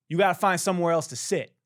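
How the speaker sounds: loud, quick mock demand; blunt and pushy, playing the other guy; imitated curt order. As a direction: act out the guy's blunt order, fast and loud. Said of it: "he says it like that".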